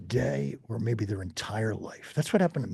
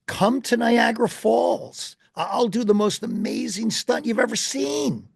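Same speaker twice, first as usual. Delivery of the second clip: showman's announcement; 9 semitones higher than usual. Retold or imitated. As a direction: announce it like a circus barker. Daredevil announcing a stunt.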